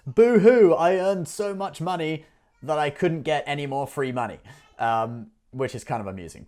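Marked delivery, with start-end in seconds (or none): 0.1-4.4 mock whining, first words loud and high; boo hoo. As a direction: whine like a spoiled complainer. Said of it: "It's like".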